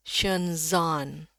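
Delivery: "shenzhen" lié en shen-zaan, lentement; enchaîner le z sur le a long de "shenzhen"; sons liés. Shown as a demonstration.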